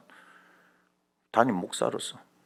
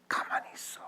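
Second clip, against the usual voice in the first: hushed, breathy order; soft, voiceless hush; whispered command; 9 dB quieter than usual. Acted. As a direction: whisper it to still them. Acts God hushing the people.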